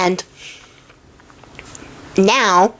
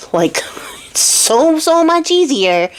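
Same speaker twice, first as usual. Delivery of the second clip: teasing whisper; 6 semitones higher, slower than usual. Retold or imitated. Xiaoqing teasingly nudges her sister to find another love, laughing whisper. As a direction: giggle it under your breath, then push the last words up.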